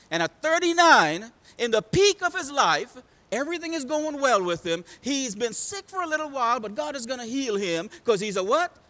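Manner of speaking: fired-up preacher; impassioned preaching. Real, not acted. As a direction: preach it up high, building to a question.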